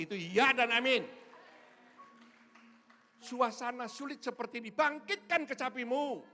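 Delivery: high, loud, fervent exhortation; impassioned pulpit shout; full-force preaching. Real, not acted. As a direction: cry out the promise to the congregation, stretching key words.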